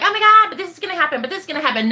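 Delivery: lightly mocked worriers, hurried; quick, mock-worried objection; naysayers. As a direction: rush it like a fretting doubter. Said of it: "people who are like".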